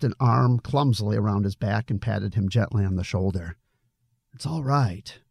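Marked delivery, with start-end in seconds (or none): 4.3-5.2 gentle, understated comforting; gentlest voice. A narrator's reading. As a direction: soothe him as gently as you can. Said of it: "in the gentlest voice he could muster".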